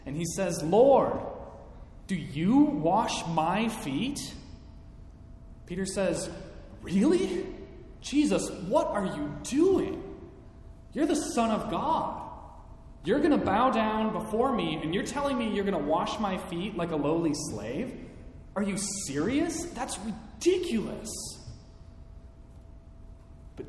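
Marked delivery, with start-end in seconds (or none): 0.6-4.3 loud, indignant outburst at Lord, then slower; a retold protest, half-acted in anger; fuming Peter. Peter fuming at Jesus kneeling to wash him, loud indignant protest. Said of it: "Peter is fuming". 6.8-21.1 incensed Peter. Retold or imitated. Peter protesting Jesus washing his feet, high incredulous outrage. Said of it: "He is incensed".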